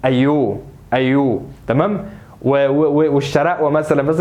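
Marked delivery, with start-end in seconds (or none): 0.1-1.4 Alexandrian "ayyu" for أيوه; mild imitation of Alexandrian speech; Alexandrian accent. Shown as a demonstration. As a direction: say أيوه as an Alexandrian, ending in a long "oo". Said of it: "طيب الإسكندرانية؟".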